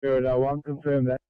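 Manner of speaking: crackly two-way radio transmission; ambulance radio. Real, not acted. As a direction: voice over a handheld radio. Radio traffic between crews.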